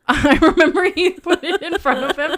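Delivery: words bubbling over with laughter; laughing. Real, not acted. Laughing while retelling nachos story.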